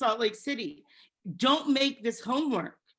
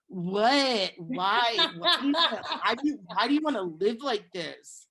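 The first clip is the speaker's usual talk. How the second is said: incredulous; 3 dB louder than usual. Retold or imitated. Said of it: "and you're just like".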